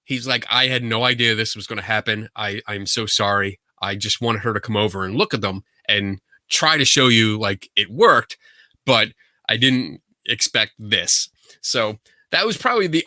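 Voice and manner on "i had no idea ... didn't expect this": lower, subdued retold apology; lightly acted, low-key regret; apologetic. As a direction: imitate a sheepish man apologizing. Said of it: "he came up and apologized".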